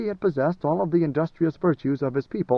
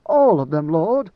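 louder, startled question rising at Lord; surprised question; 7 dB louder, slower than usual. A narrator's reading. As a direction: blurt it out in disbelief. Duncan asks Leto.

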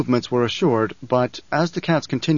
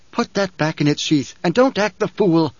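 raging; 4 semitones higher than usual. Acted. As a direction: bark it at him in a rage. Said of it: "she raged".

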